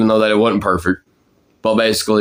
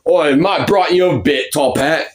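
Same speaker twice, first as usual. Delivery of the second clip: higher-pitched British cartoon character voice; Ten Cents; 6 semitones higher than usual. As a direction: pitch it up, cheeky Cockney character. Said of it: "talk like that".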